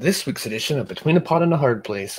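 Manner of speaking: polished broadcast host intro; news anchor voice. Real, not acted. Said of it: "I kinda sounded like a news anchor right there".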